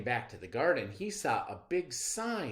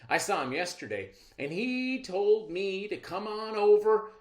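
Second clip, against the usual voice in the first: louder, higher con-man patter; smooth-talking trickster; 8 semitones higher, 6 dB louder than usual. Acted. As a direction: sell the lie with charm. Rabbit lies to the girl.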